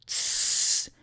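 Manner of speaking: soft hissed signal; secretive, voiceless little signal; whispered. A narrator's reading. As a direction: whisper it to get attention. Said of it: "whispered the mischief maker".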